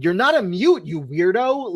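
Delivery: mild mock yell, pitched high; imitating an indignant scolding, voice jumping up; half-voiced yell of outrage; retold scream. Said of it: "she literally screams at him".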